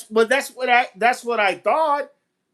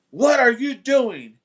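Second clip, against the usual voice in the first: slow, mildly raised imitation of a yell; retold loud call; 3 semitones higher, slower than usual. Man by the garage challenging someone unseen, mild mock yell. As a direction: stretch the words like calling across a yard. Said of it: "real loud".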